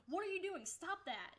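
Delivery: mock-furious shout at the shop lady; retold yell at the shop lady. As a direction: snap at her to stop hurting the crab. Yelling at lady shaking crab.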